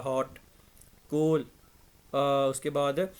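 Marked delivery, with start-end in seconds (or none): 0.0-1.4 हॉट and कूल as single beats, spaced apart; one syllable each. Shown as a demonstration. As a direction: say हॉट, pause, then कूल, each unbroken. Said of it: "उसमें एक ही syllable है".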